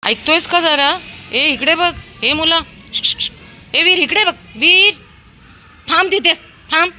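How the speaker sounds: high, loud calls to a wandering dog; loud high calls to a straying dog; calling out to the dog. Real, not acted. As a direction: shout after him to stop and look. Calling dog Veer to stop.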